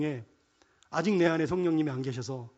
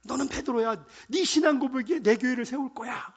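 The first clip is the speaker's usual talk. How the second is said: higher-pitched, thrilled declaration; excited Jesus; 6 semitones higher than usual. Acted. Preacher acting the excited Lord speaking to Peter, higher and animated. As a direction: announce it in a rush of excitement. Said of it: "흥분하셨다니까요".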